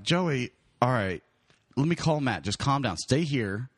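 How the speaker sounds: speaking calm though angry; measured, restrained, holding irritation in; forced calm. Retold or imitated. Teller settling the keeper before calling Matt, restrained calm. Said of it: "he's speaking calm right now".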